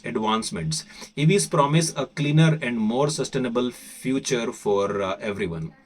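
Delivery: article read aloud in an Indian accent. Shown as a demonstration. Teacher reading to English learners in Indian accent. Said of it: "So I'm going to read this in Indian accent".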